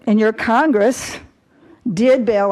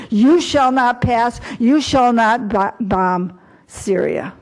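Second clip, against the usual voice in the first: Gandalf-style stand. Retold or imitated. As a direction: hold the line and forbid it, slowly. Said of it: "and say".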